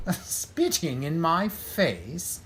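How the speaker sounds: slow, amused scorn; mocking laugh. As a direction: relish her defiance. Villain mocks captive.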